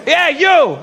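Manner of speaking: high, pointed shout; single them out with a yell; acted confrontational yell. Italian dude confronting the comedian, aggressive shout.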